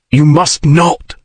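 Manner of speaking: slow, hoarse and held back; hoarse, slow warning to her. A narrator's reading. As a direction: force it out hoarsely, slowly. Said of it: "he said hoarsely".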